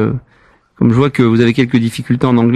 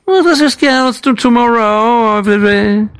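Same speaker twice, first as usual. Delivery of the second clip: put-on higher, rambling French-accented English; mock broken English; 5 semitones higher than usual. Prank caller babbling nonsense at the hotel desk, French-accented English. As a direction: babble nonsense like a lost tourist.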